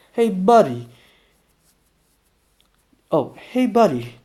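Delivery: lifted, friendly hail; deliberate friendliness. A narrator's reading. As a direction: greet him with put-on cheer. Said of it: "greeted him with deliberate friendliness".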